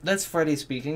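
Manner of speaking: talking with the hiccups. Real, not acted. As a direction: speak through small hiccups. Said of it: "Excuse me, I got the hiccups".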